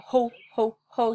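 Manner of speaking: loud pushed "ho" bursts; forceful breathing demonstration; hard ho. Shown as a demonstration. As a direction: punch each ho from the belly. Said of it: "really hard".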